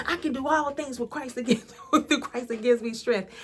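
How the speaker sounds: a reluctant, half-hearted mock recital, quick; mock sulky recital of the verse; grudging attitude. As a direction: rattle it off grudgingly like you don't believe it, ending in a laugh. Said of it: "But I would say it with such an attitude".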